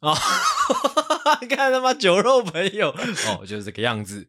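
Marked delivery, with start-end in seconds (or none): 0.2-1.4 shrieking laugh, head thrown back; helpless high-pitched laughter; high burst of laughter. Real, not acted. Cracks up at the joke.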